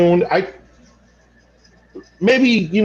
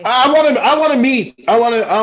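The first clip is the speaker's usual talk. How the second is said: high, excited false starts; eager stammer; 6 semitones higher than usual. Acted. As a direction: stumble over yourself with eagerness. Overcome, eager to meet the person.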